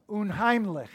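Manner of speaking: Unheimlich, the final ch scraped at the back of the throat; throaty German ch. Shown as a demonstration. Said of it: "Get the throat at the back".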